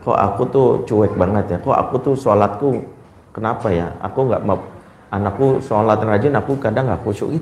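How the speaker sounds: a mother quietly asking herself about her own faults; self-reflection. Retold or imitated. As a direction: question yourself quietly. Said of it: "Tapi parenting tentang".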